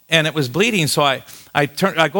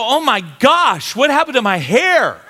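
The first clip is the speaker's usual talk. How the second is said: mock dismay; 8 semitones higher than usual. Discovers his bald spot.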